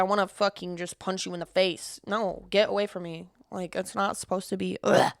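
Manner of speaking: crash out. Real, not acted. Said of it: "one of my biggest crash outs".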